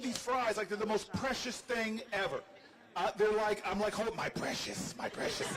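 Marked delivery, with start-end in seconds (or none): 3.9-5.5 a lightly voiced Gollum, hushed and slowed; Gollum impression. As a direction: croon over the fries like Gollum with his treasure. Hugging fries like Gollum's ring.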